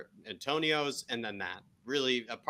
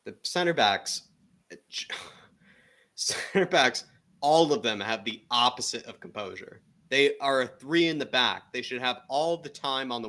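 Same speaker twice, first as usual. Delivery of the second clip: louder, heated complaint about the defence; exasperated rant; 2 semitones higher, 7 dB louder than usual. Real, not acted. Co-host venting at the center backs, loud and exasperated. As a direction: raise your voice in disbelief at the defenders.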